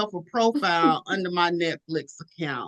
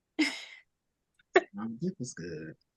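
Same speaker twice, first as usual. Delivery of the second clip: dropped low, deep, whispered, very slow; 8 dB quieter than usual. Answering friends about a date, in a deep voice. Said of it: "You hear that deep voice".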